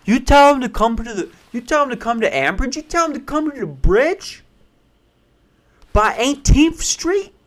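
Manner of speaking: high-pitched, exaggerated street accent; put-on street accent. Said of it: "not a good accent to do".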